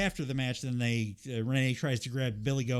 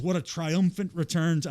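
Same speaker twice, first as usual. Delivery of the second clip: half-hearted Geordie attempt on "What a triumphant return to"; mock Geordie promo, barely there; failed Geordie accent; 4 semitones higher, 4 dB louder than usual. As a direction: try a Geordie voice and give up. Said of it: "I can't do a Geordie accent".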